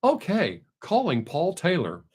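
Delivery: lightly imitated car assistant. Car mishears a call request, imitated assistant voice. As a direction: put on a hint of a voice-command system. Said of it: "it'll go".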